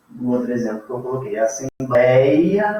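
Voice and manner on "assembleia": "assembleia" slowed, the ei drawn out; falling diphthong. Shown as a demonstration. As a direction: lean on the e in "assembleia", glide into weaker i. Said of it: "eu vou sair do mais alto pro mais fraco". ("assembleia" devagar, do e forte para o i fraco)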